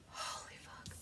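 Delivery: real whispered swearing, barely voiced; overwhelmed whisper. Real, not acted. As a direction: let it out under the breath, overcome. Overcome by sudden emotion.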